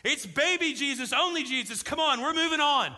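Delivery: loud indignant correction, then brisk wrap-up; a friend bristling, pitch and volume up; offended retort. Retold or imitated. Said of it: "He threw his hands up".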